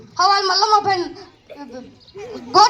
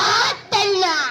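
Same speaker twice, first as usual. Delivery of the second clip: mock wail; much slower than usual. Patient wails.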